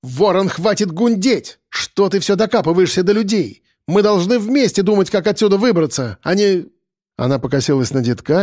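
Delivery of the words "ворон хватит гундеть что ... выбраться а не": higher-pitched woman's scolding; exasperated outburst, lightly voiced woman; barked rebuke. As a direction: tell him off sharply in a raised pitch. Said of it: "громко гаркнула".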